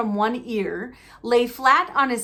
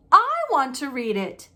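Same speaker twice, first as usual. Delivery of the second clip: furious; 4 semitones higher, 3 dB louder than usual. Acted. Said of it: "said Harry furiously".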